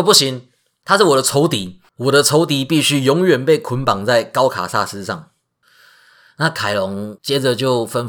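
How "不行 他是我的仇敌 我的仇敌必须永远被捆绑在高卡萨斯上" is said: stern refusal. Acted. Zeus refuses firmly.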